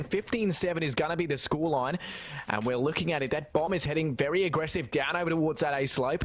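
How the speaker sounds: lively Australian-style play-by-play; Australian caster accent. Acted. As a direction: cast the match with an imitated Australian accent. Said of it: "It's just the effect of the accent".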